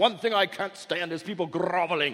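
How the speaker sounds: put-on British accent. Retelling a Monty Python scene, quoting God: British-accent Monty Python God. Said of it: "he says in this British accent".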